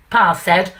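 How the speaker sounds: light, self-admittedly bad northern English accent reciting; a mild northern accent, classic music-hall monologue style; self-mocking northern accent. Reciting the Lion and Albert to the audience in a light northern accent. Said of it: "I'm gonna do my worst northern accent ever".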